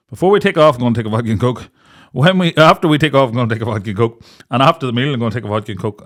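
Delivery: lively mock order; eager ordering. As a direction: announce each drink with glee.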